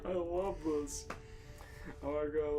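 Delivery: normal talking voice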